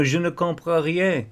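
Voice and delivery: high, put-on French accent, whiny and feigning confusion; mock French speaker. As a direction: play a francophone pretending not to understand English. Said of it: "this guy pulled this French thing".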